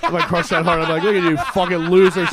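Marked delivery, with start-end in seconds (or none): 1.0-2.3 mock gloating. Imagined gloating after crushing on stage.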